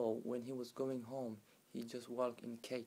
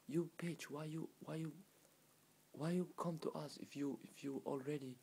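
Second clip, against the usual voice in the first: raised-pitch exasperated reproach, retold; scolding police; 4 semitones higher than usual. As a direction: act out police telling her off. Police scold Fatima in story.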